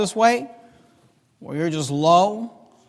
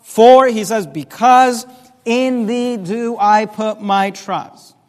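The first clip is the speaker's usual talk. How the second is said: desperate plea; 3 semitones higher, 4 dB louder, slower than usual. Acted. Preacher voicing David, pleading with God, loud and desperate. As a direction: cry out to God half in doubt. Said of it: "I feel this hint of doubt".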